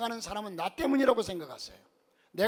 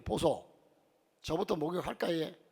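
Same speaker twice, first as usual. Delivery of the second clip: Gyeongsang wife; 5 dB quieter than usual. Retold or imitated. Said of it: "경상도 부부인 아내가".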